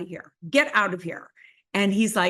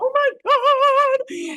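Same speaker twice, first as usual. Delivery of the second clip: play-acted very high, loud, sobbing crying wail; 6 dB louder than usual. Retelling sinking to the floor in underwear: imitating own crying.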